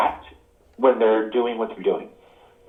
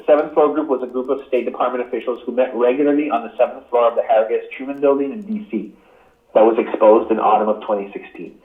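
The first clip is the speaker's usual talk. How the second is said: reading aloud. Real, not acted. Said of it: "to tell you about it".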